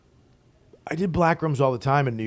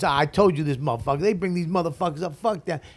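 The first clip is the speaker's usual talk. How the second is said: higher-pitched mock trash talk; 5 semitones higher than usual. Local MC trashing the visiting comic to the room, imitated trash talk. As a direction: imitate a rival trashing someone to a crowd. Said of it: "he started trashing me".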